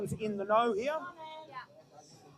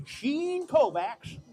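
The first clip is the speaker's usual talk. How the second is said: fake American accent; 4 semitones higher, much slower than usual. Shown as a demonstration. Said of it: "fake American accents".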